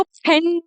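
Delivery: "फैन" begun with puffed P, "phen"; mispronunciation. Shown as a demonstration. Teacher showing what not to say, "फैन" mispronounced as p-hen. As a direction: say "फैन" wrongly with aspirated P for F. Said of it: "नहीं बोलेंगे".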